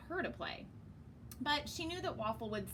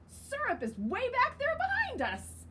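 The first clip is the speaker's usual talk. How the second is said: voiced Waffle; 4 dB louder than usual. Waffle retorts.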